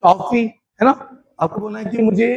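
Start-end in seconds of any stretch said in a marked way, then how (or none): 0.0-0.4 drawn out slowly; teacher modelling the answer; slow model answer. Shown as a demonstration. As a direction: say it slowly for learners. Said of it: "तो कैसे बोलेंगे?".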